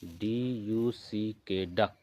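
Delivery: each letter spelled slowly and clearly for the class; slow dictation, letter by letter, then the word; slow spelling out. Shown as a demonstration. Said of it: "तो इसको भी आप लिखिए".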